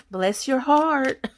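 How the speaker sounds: slow, laughing Southern "bless your heart"; Southern drawl. Retold or imitated. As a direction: lean into the Kentucky accent with a laugh. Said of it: "y'all can tell that from my accent".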